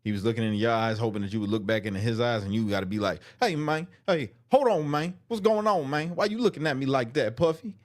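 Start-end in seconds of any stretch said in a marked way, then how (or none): 3.4-7.7 Terrence impression. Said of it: "That was a horrible Terrence impression".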